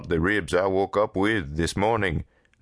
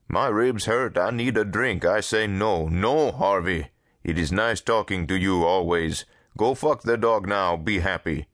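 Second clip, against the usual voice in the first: exasperated character in broken English; animated, emphatic brush-off; Dupre; 3 semitones higher than usual. Acted. Dupre turns Harvey down over the dog, exasperated.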